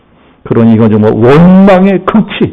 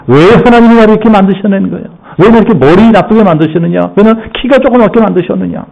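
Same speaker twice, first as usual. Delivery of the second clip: higher, fast whining grievance; complaining to God; 5 semitones higher than usual. Acted. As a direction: whine at God about your lot. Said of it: "하나님을 원망하는 사람들". (하나님께 투덜대며 원망하는 말투)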